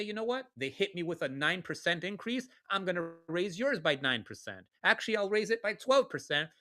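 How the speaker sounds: a hint of a scheming landlord; imagined landlord. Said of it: "He's gonna say".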